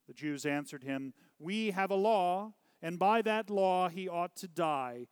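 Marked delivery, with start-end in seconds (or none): 1.4-5.1 higher, louder protest; insistent accusation. A narrator's reading. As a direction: insist on it before the governor. Accusers argue back at Pilate.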